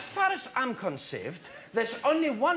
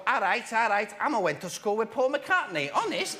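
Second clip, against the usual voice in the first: comic Liverpool lilt; mock Scouse accent. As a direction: send up a Scouser. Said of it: "they speak in Scouse".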